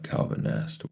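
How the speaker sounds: ordinary delivery, nothing marked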